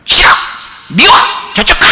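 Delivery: squeaky acted tantrum; short, whiny mock outbursts; crying child. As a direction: mimic a tearful kid rejecting dad. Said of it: "막 울고 막 그래".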